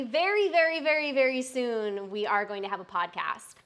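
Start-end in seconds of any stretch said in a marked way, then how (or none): 0.0-2.1 rising hype on each very; building to a big reveal; excited build-up. Real, not acted. Streamer teasing news to chat, getting excited.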